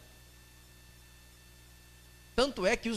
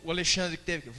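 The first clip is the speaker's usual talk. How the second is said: ordinary talk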